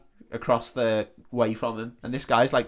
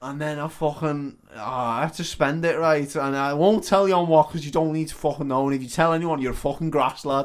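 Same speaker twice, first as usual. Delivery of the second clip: lightly voiced scrounger; 3 semitones higher, 3 dB louder than usual. Playing the scrounging drunk lad.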